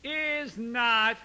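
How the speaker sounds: put-on high, loud whine of an ornery kid; whiny kid. Shown as a demonstration. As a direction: whine it like a bratty child refusing. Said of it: "the more whiny it becomes".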